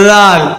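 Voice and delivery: லால் begun with tongue between the teeth; light tongue-out dh. Shown as a demonstration. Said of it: "லைட்டான உச்சரிப்பு".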